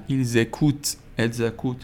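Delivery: ایلزکوت، الزکوت with z linking pronoun and verb; ایلزکوت، الزکوت, the z clearly sounded; liaison with z. Shown as a demonstration. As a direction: run ایلزکوت and الزکوت together as single words.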